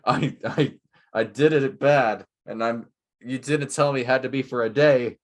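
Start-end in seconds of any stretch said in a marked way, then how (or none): 0.0-0.7 lightly put-on comic impression, a bit louder; Jim Carrey voice. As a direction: do a half-hearted, hammed-up Scrooge. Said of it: "that's my Jim Carrey voice".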